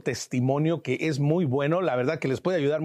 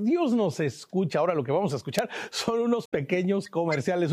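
ordinary delivery

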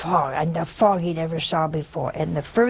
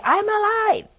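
very high, strained cry to be heard; high pleading cry to his wife; desperate plea; 4 dB louder than usual. Acted. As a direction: insist you're alive, voice pitched way up. Dead man pleading to be heard.

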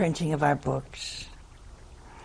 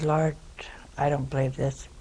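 exasperated mutter; 6 dB quieter than usual. Retold or imitated. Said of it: "I said".

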